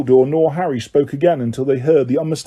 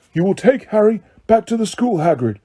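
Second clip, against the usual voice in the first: firm; 7 semitones higher than usual. A narrator's reading. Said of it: "Dumbledore repeated firmly".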